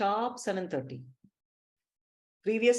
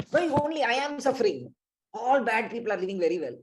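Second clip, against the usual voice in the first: mock self-pity; 3 semitones higher, 3 dB louder, faster than usual. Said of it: "utter these kinds of words".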